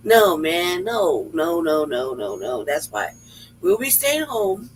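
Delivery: ordinary talk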